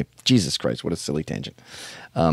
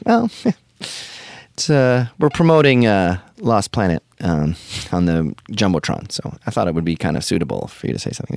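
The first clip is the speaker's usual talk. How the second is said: pissy marketing lady. Retold or imitated. Marketing lady pushing Will to promote, mildly pissy. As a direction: needle him like an annoyed promoter. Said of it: "starts getting kinda pissy".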